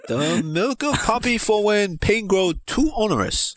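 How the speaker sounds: put-on high, slow old maester; a doddering old healer, slowly. Reading Pycelle in character.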